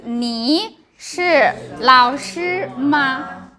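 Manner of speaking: slow model of 你是老师吗, syllables drawn out; practicing tones. Shown as a demonstration. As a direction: say 你是老师吗 slowly for learners. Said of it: "So it's".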